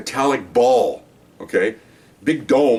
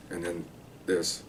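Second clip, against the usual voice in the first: much softer, life draining out; dying away; 5 semitones lower, 15 dB quieter, slower than usual. Shown as a demonstration. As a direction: let the voice fade like a dying man. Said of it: "I'm doing it now, like this".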